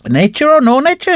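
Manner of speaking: high, sharp woman's retort. A narrator's reading. Annie refusing Mulvaney's excuse, high sharp retort. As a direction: cut him off firmly. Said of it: "says she".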